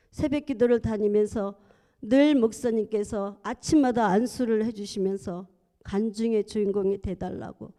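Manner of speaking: usual speaking voice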